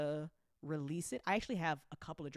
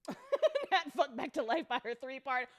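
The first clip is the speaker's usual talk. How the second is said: laughing through the title; words bubbling with laughter; giggly, amused aside; 6 semitones higher, 4 dB louder, slower than usual. Real, not acted. Partner laughs naming a story.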